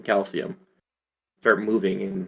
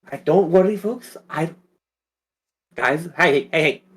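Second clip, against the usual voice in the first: tentative higher chicken voice; half-found character voice, pitched up; wrong character voice; 3 semitones higher than usual. Acted. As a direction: fumble for a chicken's voice, lightly. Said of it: "Wrong voice".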